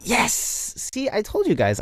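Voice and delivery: high-pitched delighted outburst; gleeful triumph. Real, not acted. Host tells listeners they were right about him, gleeful. Host celebrates being called sexy.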